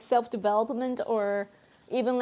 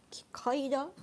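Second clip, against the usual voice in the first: quiet puzzling; 2 semitones higher, 5 dB quieter than usual. Real, not acted. Puzzling over an unknown name.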